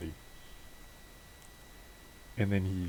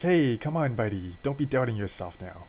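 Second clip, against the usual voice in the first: rousing encouragement; 4 semitones higher than usual. Acted. Partner pumps up doubting friend.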